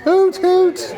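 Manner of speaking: two high, loud hoot calls; host hooting for the game; repeated hoots. Shown as a demonstration. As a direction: call it out twice like an owl. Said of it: "I'm gonna shout hoot".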